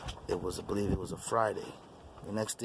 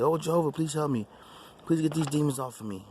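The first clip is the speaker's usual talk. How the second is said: higher, pleading cry to God; retold desperate prayer; 6 semitones higher than usual. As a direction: beg for help as if in danger.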